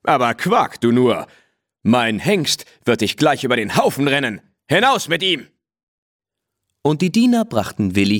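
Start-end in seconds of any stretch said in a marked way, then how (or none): 0.0-5.5 angry sheikh. Acted. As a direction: throw him out in a rage. Angry sheikh orders him out.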